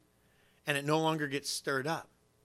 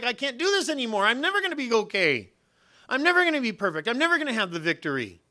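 despairing inner voice; 6 semitones higher than usual. Retold or imitated. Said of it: "You're gonna feel like".

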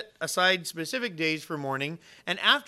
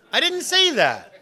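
laughing; 10 semitones higher, 10 dB louder, slower than usual. Real, not acted. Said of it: "laughing admission".

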